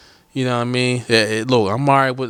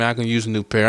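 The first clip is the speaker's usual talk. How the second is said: offhand ask for headphones; casual demand. Shown as a demonstration. Asking Dre for new headphones, offhand and blunt. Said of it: "I ain't mean to say it like that".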